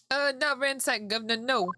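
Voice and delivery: cockney rogue explaining himself, a touch nervous; cockney witness. Acted. Cockney brother explaining the mess to court, cockney accent. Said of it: "Why did I even give him this accent?".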